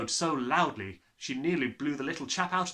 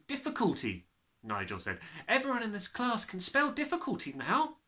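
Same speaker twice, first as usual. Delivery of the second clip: put-on boy's voice; 9 semitones higher than usual. Nigel answers.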